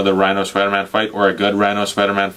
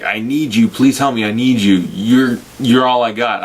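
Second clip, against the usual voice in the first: Harry Osborn pleading. Retold or imitated. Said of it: "Harry's like".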